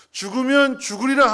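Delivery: loud, high-pitched ringing declaration; proclaimed vow. Acted. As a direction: declare it boldly to the congregation. Esther's vow shouted in sermon.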